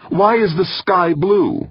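sharp, high, drawn-out retort; snapped. A narrator's reading. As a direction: throw the question back in irritation. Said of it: "Molina snapped".

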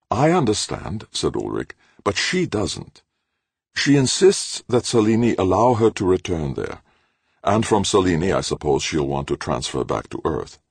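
lightly voiced anxious professor, high; a hint of a worried academic; fretful old professor. A narrator's reading. Ulrich voiced in narration.

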